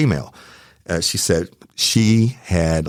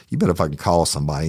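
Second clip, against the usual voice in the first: angry; faster than usual. Retold or imitated. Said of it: "I was fucking livid".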